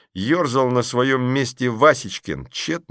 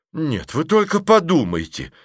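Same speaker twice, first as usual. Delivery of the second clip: indignant; 7 semitones higher than usual. Acted. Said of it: "возмутилась сидевшая сзади дама".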